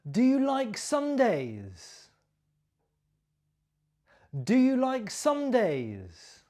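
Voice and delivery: teacher models the question, stressing "you". Shown as a demonstration. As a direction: hit "you" high in "Do you like Sundays?". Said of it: "my stress and my intonation".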